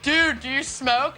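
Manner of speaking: slow, lightly imitated American college boy. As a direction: put on a slow American dude accent. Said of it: "the one guy was like".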